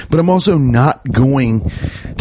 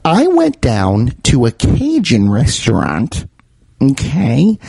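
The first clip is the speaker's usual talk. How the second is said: slow, hammed-up opinionated aunt; somebody's aunt; slower than usual. Comedian retakes his restaurant opener as somebody's aunt, hammed-up. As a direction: draw it out like an aunt giving her opinion. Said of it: "Why do I sound like somebody's aunt".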